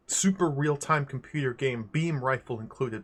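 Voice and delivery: big build-up to a shouted title; hype announcer read. Pretend. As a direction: read the game box like a hype man, erupting at the end. Hype read of game box text.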